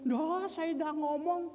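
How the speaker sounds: retold brusque protest; curt denial. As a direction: imitate a snippy person denying it. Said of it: "orang-orang yang ketus mulutnya".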